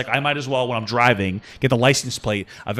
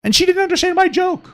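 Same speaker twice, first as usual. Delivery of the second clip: mocking shout. Mocking the complaining guest.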